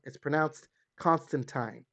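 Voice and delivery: slow, careful Constantine ending like "tine"; comic-book pronunciation. Shown as a demonstration. Fan citing the comic panel, Constantine ending in a long "eye" sound. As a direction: spell out Constantine by ear, last syllable rhyming with "wine". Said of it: "telling people how it's pronounced".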